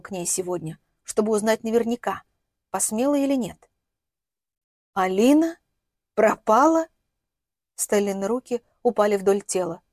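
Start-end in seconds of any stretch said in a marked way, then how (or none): 4.9-6.9 cool questioning lift, pitched higher; a touch of idle curiosity without sympathy; indifferent, faintly curious. A narrator's reading. Mother asks distraught man about his missing daughter, indifferent, faintly curious. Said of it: "Равнодушие, может, чуть любопытство".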